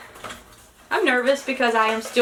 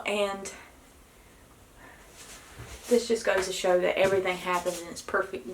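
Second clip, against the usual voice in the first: normal talking voice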